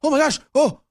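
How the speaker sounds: very high, swooning mock delight; mock gushing. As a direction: squeal like it's a miracle.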